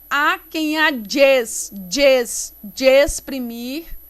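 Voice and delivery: DE ES- joined into one firm "djes"; emphatic demo of DE and ES fused; run together. Shown as a demonstration. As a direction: link the vowels in DE EXPRIMIR, repeating the joined sound. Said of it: "Eu falo tudo junto".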